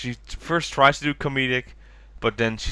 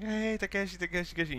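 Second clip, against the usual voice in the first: calling out; 8 semitones higher, 7 dB quieter, faster than usual. Retold or imitated. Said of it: "everybody's like".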